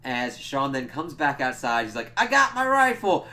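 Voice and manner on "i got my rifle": mock triumphant shout. Sean voiced, excited shout.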